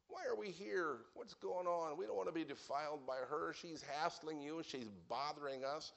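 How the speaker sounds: whiny disciples. Retold or imitated. Disciples begging Jesus to send the woman away, whining. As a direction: beg the Lord to send her away. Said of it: "They said".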